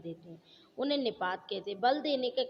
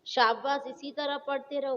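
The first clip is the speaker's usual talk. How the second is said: praise; 3 semitones higher than usual. Shown as a demonstration. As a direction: cheer the student on. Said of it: "प्रशंसा बोधक".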